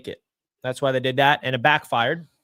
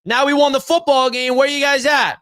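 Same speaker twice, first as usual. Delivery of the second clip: mock whiny chat voice; 3 semitones higher than usual. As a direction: tease the complaining fans. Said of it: "all I saw in the chat".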